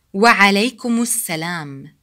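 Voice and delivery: "Wa alaikumus salam" linked without a stop; as one word. Shown as a demonstration. Teacher saying the response as one word, joined. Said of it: "We say them as one word".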